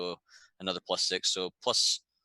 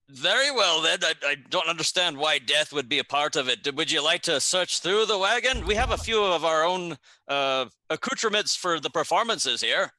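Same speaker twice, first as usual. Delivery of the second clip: put-on higher, flustered Garundi accent; a lightly put-on Garundi accent, pitched up; poor Garundi accent; 4 semitones higher than usual. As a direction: apologise to the guards in a bad Garundi accent. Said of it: "In a poor Garundi accent".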